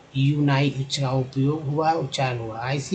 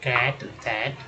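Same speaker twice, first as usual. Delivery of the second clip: slow demo words; 2 semitones lower, 3 dB quieter, slower than usual. Shown as a demonstration. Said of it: "एटी को एट बोलते हैं".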